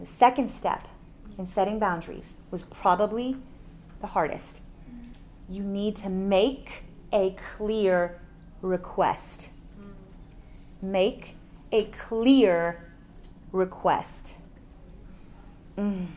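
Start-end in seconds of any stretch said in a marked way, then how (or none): 5.5-14.3 slow, deliberate stress on "clear"; emphatic CLEAR. Real, not acted. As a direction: draw out "clear", then land "request" after a pause. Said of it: "I really emphasize the word clear".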